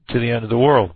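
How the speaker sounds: losing voice, hoarse; hoarse, tired voice. Real, not acted. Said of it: "I seem to be losing my voice".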